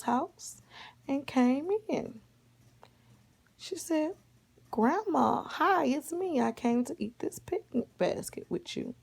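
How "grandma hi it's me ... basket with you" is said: put-on high-pitched little girl greeting grandma; story child, high-pitched; Red Riding Hood. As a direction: lift the voice into an eager child's hello.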